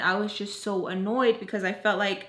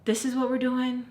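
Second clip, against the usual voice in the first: slightly raised, questioning disbelief; 4 semitones higher than usual. Retold or imitated. To Tommy in the car, annoyed disbelief. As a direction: ask it like you can't believe it. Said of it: "And I'm just like".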